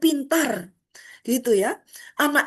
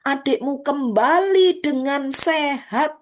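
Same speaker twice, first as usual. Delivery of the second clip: servant announcing; slower than usual. Acted. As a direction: announce the news with slow weight. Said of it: "hamba itu berkata".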